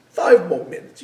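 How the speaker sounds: urgent but mild insistence; pleading insistence. Retold or imitated. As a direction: press the point, urging. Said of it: "that's the voice that goes in our heads".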